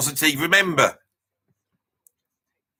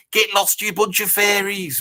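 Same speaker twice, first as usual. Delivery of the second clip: mild mock outrage, raised pitch; retold irate taunt; 6 semitones higher than usual. Geezer taunting the mods in an anecdote, mock irate. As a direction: imitate an irate friend's taunt. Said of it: "he got very irate at that".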